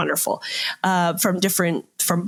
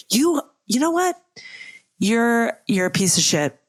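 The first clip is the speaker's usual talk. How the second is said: angry outburst; 4 semitones higher than usual. Acted. Improv scene, wife berating ex-husband.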